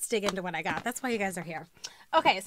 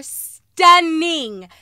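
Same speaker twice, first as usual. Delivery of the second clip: gushing praise; 4 semitones higher, 10 dB louder than usual. Real, not acted. Praising expensive shoes.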